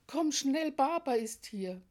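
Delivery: höher und lauter, ein Kind ruft aufgeregt; aufgeregtes Rufen. Retold or imitated. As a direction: aufgeregt nach der Mama rufen. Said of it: "kommt sie gelaufen und ruft". (Kind ruft aufgeregt nach der Mutter)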